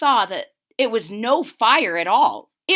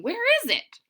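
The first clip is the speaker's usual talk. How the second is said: put-on old man asking; 12 semitones higher, faster than usual. Man asks for pie.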